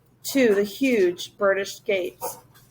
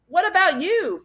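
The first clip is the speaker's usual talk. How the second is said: higher horrified cry; 8 semitones higher than usual. A narrator's reading. Ben, horrified, crying to the professor. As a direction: cry out in fear for him. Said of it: "Ben cried, horrified".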